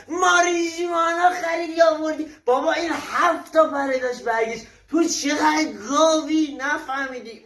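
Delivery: put-on dad yelling at his child in a skit; angry scolding. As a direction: scold the kid with exasperated force.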